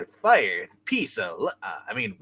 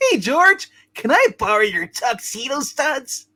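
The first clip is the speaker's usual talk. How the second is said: higher, laughing Harry; 7 semitones higher than usual. Acted. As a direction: try a jaunty Harry voice. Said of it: "I forgot what I did for his voice".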